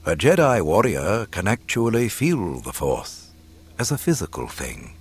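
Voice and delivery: measured, deliberate teacher's voice; wise mentor. Acted. Old mentor explaining the Force to his pupil, measured reverence.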